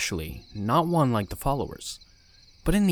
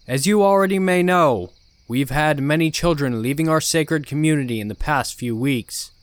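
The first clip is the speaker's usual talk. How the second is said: ominous sermon; 4 semitones higher, 6 dB louder than usual. Acted. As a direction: warn the flock with menace. Cult leader sermon.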